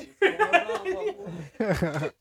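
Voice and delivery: high-pitched laugh; real laugh greeting a friend. Real, not acted. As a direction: burst out laughing. Laughs as friend Scott arrives.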